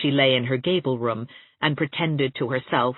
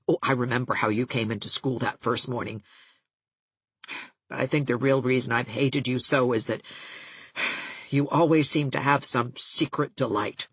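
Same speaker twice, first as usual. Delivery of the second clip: gasping, tearful outburst; 2 semitones lower than usual. Acted. Catherine to Anne, bitter and tearful. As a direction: let the hurt spill over in gasps.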